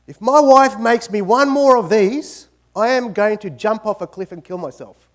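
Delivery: hammed-up loud threat; exasperated outburst. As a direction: rant like a man fed up with sandwiches. Husband's joke complaint about sandwiches.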